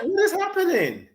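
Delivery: high, bewildered retold question; stunned disbelief. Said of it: "I was like".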